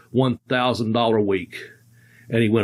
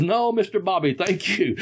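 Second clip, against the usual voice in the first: limo driver; 5 semitones higher than usual. Retold or imitated. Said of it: "I can't do an Indian accent".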